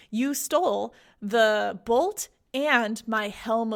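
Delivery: slow, word-by-word imitated accusation; mock angry accusation. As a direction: act out an angry god, spacing out each charge. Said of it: "like, super angry".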